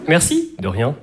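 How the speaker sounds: courteous little thanks; hypocritically polite. Acted. Customer thanking the baker, falsely polite. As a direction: thank them with routine shop politeness. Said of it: "le top de l'hypocrisie".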